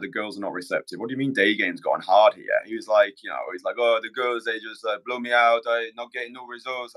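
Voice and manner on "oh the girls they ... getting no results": lightly imitated French accent. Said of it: "that was my French accent".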